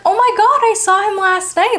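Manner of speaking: high startled cry of recognition; shocked recognition. Retold or imitated. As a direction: blurt it out in disbelief. Woman recognizes the dead man.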